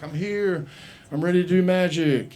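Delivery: hopeful, mock-grand entrance; eager announcement. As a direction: announce yourself like an eager new wizard. Acts eager arrival at wizard school.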